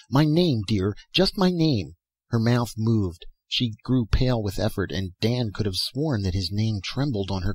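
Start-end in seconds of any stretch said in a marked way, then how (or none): 0.1-2.0 high, urgent begging; implore, voice pitched well up; earnest, imploring plea; desperate pleading. A narrator's reading. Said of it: "he pleaded desperately".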